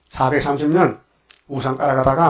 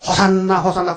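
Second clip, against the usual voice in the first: higher-pitched imitated hosanna call; lightly raised voice, imitating a crowd calling out; children's hosanna cry; 5 semitones higher, 3 dB louder than usual. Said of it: "불렀어요". (어린애들의 환호를 흉내 낸 외침)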